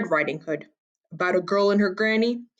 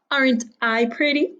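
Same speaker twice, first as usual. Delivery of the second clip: put-on vain girl; 6 semitones higher than usual. A narrator's reading. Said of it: "she said".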